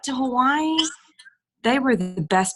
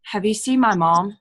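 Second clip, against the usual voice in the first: deadpan. Retold or imitated. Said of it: "deadpan ... she goes".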